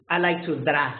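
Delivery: dra with a Spanish flat a. Shown as a demonstration. Teacher mimics the wrong Spanish dra. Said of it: "You don't say".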